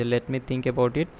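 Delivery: slow, deliberate model answer; unhurried exam phrase; slow demo phrase. Shown as a demonstration. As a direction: say it slowly as an example. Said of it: "তখন আমরা বলতে পারি যে".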